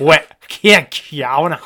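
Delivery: slow Northern Irish commentator, laughing through it; mock Northern Irish commentary with laughter. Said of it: "Every time I do the Nordy accent".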